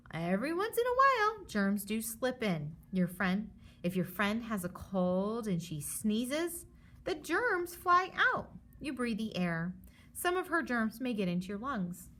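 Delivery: lively storybook read for a class; reading to children. Acted. Teacher reads the germs book aloud to her students. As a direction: read it like a picture book to kids.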